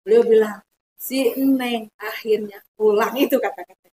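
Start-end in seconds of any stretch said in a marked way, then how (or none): 0.9-3.1 slow, gentle Si Eneng; tender welcome. Retold or imitated. Emak welcoming her home, tender and slow.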